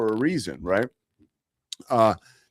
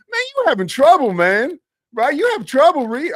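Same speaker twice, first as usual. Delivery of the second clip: angry driver; 7 dB louder than usual. Retold or imitated. Pickup driver taunting the newsman after the crash, high and loud. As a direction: jeer at the newsman from across the lot.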